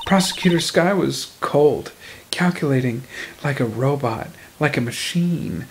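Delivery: low, hushed noir monologue; low dramatic narration. Acted. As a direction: intone it like a detective.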